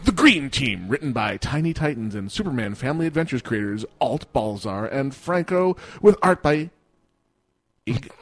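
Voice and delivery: booming epic trailer narrator; movie trailer voice. Acted. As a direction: announce it like a blockbuster trailer. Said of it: "I gotta do it in the movie voice".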